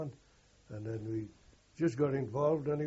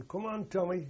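retold German shout; 6 semitones higher than usual. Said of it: "clever boy up here was shouting".

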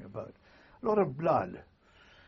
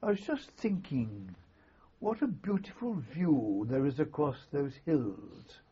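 put-on Peter Barkey gazing off, slow Highland accent; 2 semitones higher than usual. Doctor musing at the hills, slow Highland Scottish accent. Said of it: "he said in that wonderful Highland accent".

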